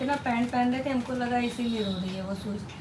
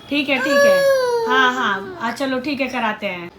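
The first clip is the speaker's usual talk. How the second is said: much higher, louder quick reassurance; shrill hurried soothing; 5 semitones higher, 13 dB louder than usual. Real, not acted. Mother calming crying child.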